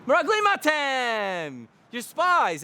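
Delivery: slow, stern accusation of spies; accusing Yosef. Acted. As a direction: point the finger, slowly and firmly. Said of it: "So Yosef says to them".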